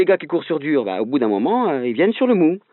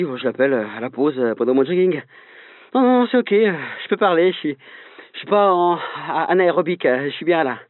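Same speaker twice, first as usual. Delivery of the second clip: breathless phone chat while jogging; while running. Acted. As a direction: keep the breath short, still running. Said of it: "je suis, euh, essoufflé". (parle en courant, essoufflé)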